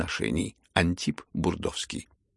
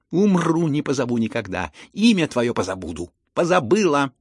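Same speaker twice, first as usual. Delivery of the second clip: much louder, high outburst; furious vow; 5 semitones higher, 7 dB louder than usual. Acted. Lizaveta swears she will never call the prince back, shouting. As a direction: hurl the vow at him.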